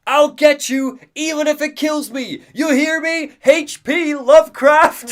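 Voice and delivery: high, hammed-up villain yell; mock furious pursuer yelling after a fugitive; Nightingale. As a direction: shout threats into the night, stretching the final name. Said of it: "we hear Nightingale in the night yelling".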